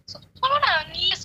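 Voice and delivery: drawn-out mock yell, slow. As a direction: stretch it out like a teasing yell. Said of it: "malah teriak ini". (teriakan pura-pura, pelan dan panjang)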